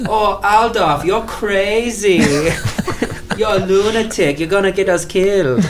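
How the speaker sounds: hammed-up high kid, laughing; high mock kid voice. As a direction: squeak it like a cartoon boy. Kid voiced in retold trailer.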